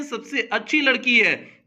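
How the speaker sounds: ordinary talk, nothing marked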